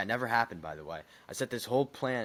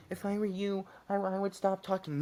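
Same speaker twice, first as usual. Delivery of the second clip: high, lightly voiced warning teacher; stern teacher; 12 semitones higher, 4 dB louder than usual. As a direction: warn the kid like a second teacher.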